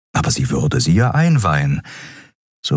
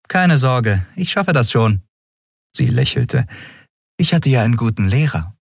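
put-on higher, brisk young woman's voice; young captain Andriel; 5 semitones higher than usual. A narrator's reading. Captain explains to her crew, lively and quick. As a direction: lift it up and push on briskly.

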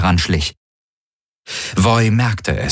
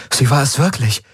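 astonished; 6 semitones higher than usual. Acted. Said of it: "blinzelte erstaunt".

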